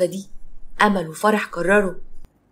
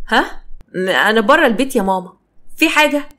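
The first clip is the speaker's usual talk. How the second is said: flustered stammer, pitch jumping up on questions; nervous; 2 semitones higher than usual. Acted. Daughter caught off guard by mother's call, nervous. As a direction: stall anxiously while covering up. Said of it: "اتوترت جدًا".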